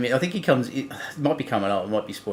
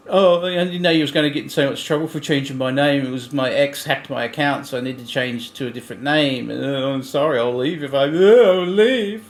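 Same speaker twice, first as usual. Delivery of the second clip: mock oversensitive; 2 semitones higher than usual. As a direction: play the wounded martyr, hammed-up. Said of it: "they're so fucking sensitive".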